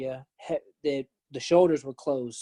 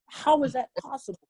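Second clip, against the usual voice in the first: higher pitched wondering question; amazed disbelief; 10 semitones higher than usual. Retold or imitated. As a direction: ask it like it still makes no sense. Amazed at landing safely.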